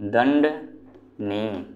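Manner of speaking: दंडनीय stretched very slowly, every syllable drawn out; teacher savouring the answer दंडनीय, slow. Shown as a demonstration. Teacher answering his own question to students, slow and drawn out. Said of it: "क्या होगा?".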